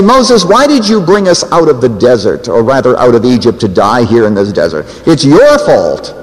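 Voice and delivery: a touch of accusing grievance; mock grumbling. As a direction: imitate grumblers blaming their leader, drag out the final accusation. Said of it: "they begin to grumble at Moses".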